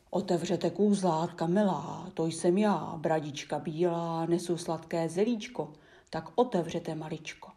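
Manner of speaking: wolf pretending sweetly. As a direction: coax the kids to open the gate, a bit loud. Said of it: "Spustil hlasem vlčím basem".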